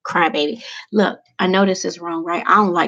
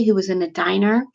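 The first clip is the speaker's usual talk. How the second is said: ordinary talk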